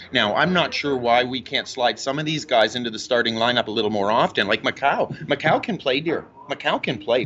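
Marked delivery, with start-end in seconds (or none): 3.7-7.3 low, lightly voiced mom talking hoops; a touch of his doting mother; imitating mom. Son voicing his mom on the starting lineup.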